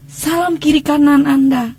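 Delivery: slow, drawn-out greeting to the congregation; church greeting. Retold or imitated. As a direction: greet your neighbours in church, unhurried. Menirukan salam jemaat di gereja. (salam jemaat yang dipanjangkan)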